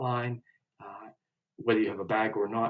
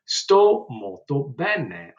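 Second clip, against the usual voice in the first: each syllable stretched for learners; slow model phrase; 3 semitones higher, 7 dB louder, much slower than usual. Shown as a demonstration. Teacher slowly modelling Italian for students. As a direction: spell it out slowly for the class. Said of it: "teacher models Italian phrase".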